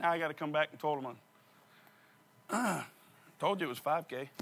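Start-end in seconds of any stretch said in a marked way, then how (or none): none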